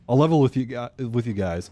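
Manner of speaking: choking on a sip of water; water down the wrong pipe; coughing up water. Real, not acted. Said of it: "water went down the wrong pipe".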